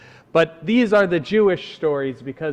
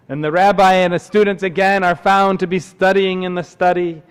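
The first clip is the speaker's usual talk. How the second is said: animated, lifted storyteller; story narration; 6 semitones higher, 5 dB louder than usual. A narrator's reading. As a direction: set the scene again for a crowd. Tells a camp story.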